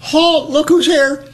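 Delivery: high, teasing chant of halt; mock group holler. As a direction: mimic a mess hall of guys mocking him. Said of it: "guys stand up and holler".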